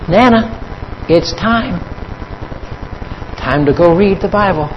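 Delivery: lightly voiced child calling Nana; grandchild's call.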